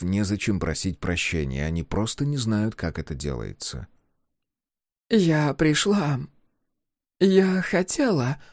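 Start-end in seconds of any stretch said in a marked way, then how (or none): 5.1-8.4 slow, halting, higher voice; faltering apology. A narrator's reading. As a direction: she stumbles over the first words. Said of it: "Она запинается и краснеет".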